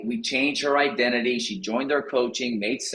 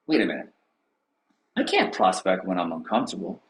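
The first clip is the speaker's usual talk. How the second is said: low, hesitant mock voice; mock hesitant agent; 8 semitones lower than usual. Tom before his calls, low hesitant mock voice. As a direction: talk yourself out of it. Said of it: "he's like".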